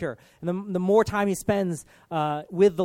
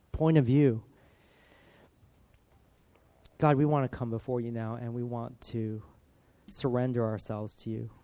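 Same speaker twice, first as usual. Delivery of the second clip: lower-pitched, heartfelt praying with pauses; earnest prayer; 3 semitones lower than usual. Real, not acted. Preacher praying to God for the congregation, earnest prayer. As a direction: pray aloud, settling lower as it goes.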